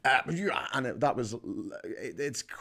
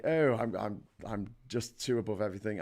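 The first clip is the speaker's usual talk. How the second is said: put-on snooty posh accent; 4 semitones lower, 3 dB quieter than usual. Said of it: "that posh Rissy pronunciation".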